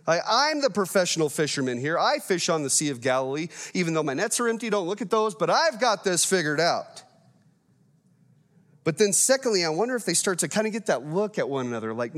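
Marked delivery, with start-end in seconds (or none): 0.1-7.0 indignant, mildly huffy fisherman; a hint of wounded pride; proud and puffed up. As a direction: bristle at being told how to fish. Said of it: "pride and puffiness".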